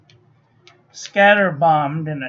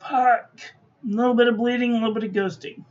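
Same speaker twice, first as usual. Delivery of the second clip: words stretched through a yawn; yawning while talking; 3 semitones higher, faster than usual. Real, not acted. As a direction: talk mid-yawn, drowsy. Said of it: "I can't stop yawning".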